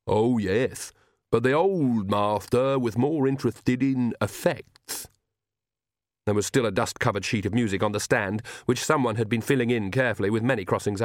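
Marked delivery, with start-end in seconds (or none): 0.1-5.1 slow, lisping servant voice; Igor voice. Acted. Igor tells Nanny about the old Count, slow servant voice. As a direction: speak like a devoted old servant.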